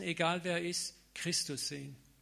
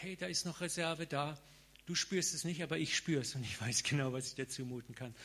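gently voicing God. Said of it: "Gott sagt". (Gott sanft und beruhigend)

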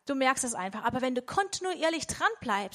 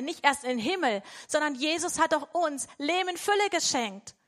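eager, raised voice of the spirit pleading to grow; eager spirit speaking; 3 semitones higher than usual. Acted. Preacher voicing the spirit to the congregation, eager. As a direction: insist you want to grow, fervent and higher. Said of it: "Aber der Geist, der sagt".

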